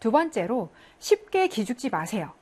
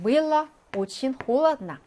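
было очень холодно read very slowly; slow, careful Russian read; slow model reading; 2 semitones higher, much slower than usual. Shown as a demonstration. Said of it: "수로부사의 과거 시제".

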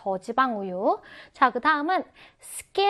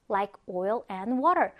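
"Like oil and water" in a connected, quicker flow; quicker repeat; 4 semitones lower, much slower than usual. Shown as a demonstration. Teacher repeats the English idiom for learners, connected and quicker. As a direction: run "Like oil and water" together as one phrase.

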